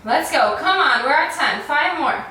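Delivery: normal talking voice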